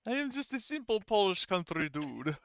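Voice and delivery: slow simple country dude. Acted. Player mocking Polish character.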